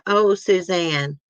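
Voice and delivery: slow, drawn-out imitation of pleading; mock pleading. Imitating a husband's video plea for Suzanne, mock pleading. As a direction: lightly mimic an insincere plea, words stretched. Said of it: "when he did that video pleading for Suzanne".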